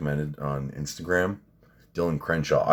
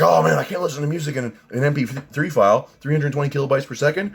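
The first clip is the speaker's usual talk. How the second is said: mock audiophile snob; 6 semitones higher than usual. Mocking a snobbish audiophile.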